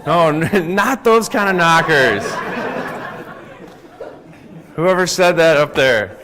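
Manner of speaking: laughing through the words. Real, not acted. Speaker laughing at a heckler's joke, giggling. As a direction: giggle while correcting the joke. Audience joke about knockers.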